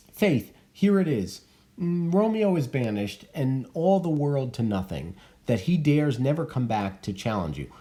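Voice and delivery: put-on a touch of a practical old nurse; the nurse advising Juliet, lightly voiced. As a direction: break the hard news plainly. Reads the nurse's advice.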